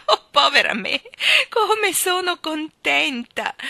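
high, loud, stretched-out delight; joyful trill. A narrator's reading. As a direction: trill it gleefully, slowing at the end. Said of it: "trillò piroettando nell'aria". (trillo acuto di gioia)

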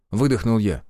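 ordinary delivery

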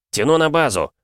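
high, loud panicked call; alarmed radio cry. A narrator's reading. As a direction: shout it, engine on fire. Hit pilot radios.

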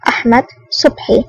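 subdued, resigned delivery; feigned surrender. A narrator's reading. Adham feigns surrender and gives his name, resigned. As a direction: give the name up as if mildly defeated. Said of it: "تصوير الاستسلام على وجهه ولهجته".

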